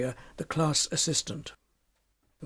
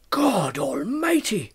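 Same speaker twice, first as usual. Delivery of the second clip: startled cry; 3 semitones higher, slower than usual. Acted. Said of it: "he cried".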